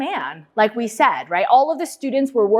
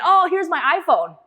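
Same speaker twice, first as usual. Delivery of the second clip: higher, lightly eager student voice; imitated excitement; 6 semitones higher than usual. Student showing Steve Jobs his phone, lightly excited. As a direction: act out an eager student, pitched up. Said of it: "he was so excited".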